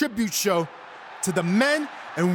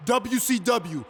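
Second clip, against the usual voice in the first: slow, drawn-out proclamation to the arena; drawn-out announcement; 2 semitones higher, much slower than usual. Acted. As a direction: stretch out every word for the crowd. Wrestler closes the announcement.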